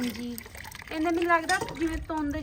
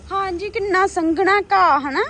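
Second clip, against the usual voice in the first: excited; 5 semitones higher, 7 dB louder than usual. Real, not acted. Amazed at thick grass.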